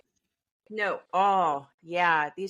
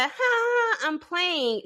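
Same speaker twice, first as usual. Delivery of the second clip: playful teasing; 8 semitones higher than usual. Retold or imitated. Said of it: "she doesn't do, like, the".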